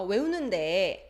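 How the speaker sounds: 데 with only a brief dip; quick, short ending on 외우는데; short vibration. Shown as a demonstration. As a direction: end 데 soon, barely wavering. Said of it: "or really short".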